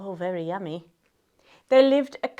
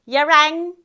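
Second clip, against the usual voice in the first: louder, brash storybook character; grinning fairy godmother; 3 semitones higher, 5 dB louder than usual. Acted. Fairy godmother pops up before Cinderella, lightly voiced grinning greeting. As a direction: say it through a grin, lightly acted. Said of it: "she grinned".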